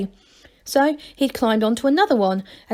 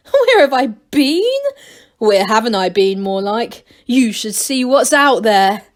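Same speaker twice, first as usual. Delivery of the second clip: excited bragging; 5 dB louder than usual. Acted. Angelo boasting to crowd.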